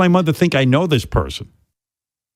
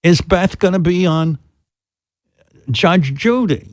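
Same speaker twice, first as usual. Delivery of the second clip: mother voice; 5 semitones higher, slower than usual. Retold or imitated. Son voicing his mother.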